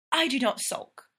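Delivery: a touch of mock offence; indignant. Belle denying she sulks, mildly indignant. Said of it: "Belle says indignantly".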